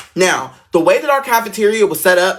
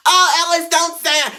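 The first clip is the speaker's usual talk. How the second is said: put-on pleading old teacher; 12 semitones higher than usual. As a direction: gently beg him not to say it, much higher.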